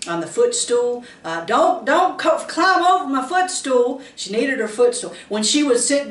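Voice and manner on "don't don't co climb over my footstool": scolding granny. Retold or imitated. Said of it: "'cause she wanted to prop her feet up".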